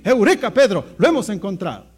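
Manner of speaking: lightly acted urgent good news; excited announcement. Andrés tells Pedro of the Messiah, acted excitement. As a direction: punch the exclamation and press on eagerly.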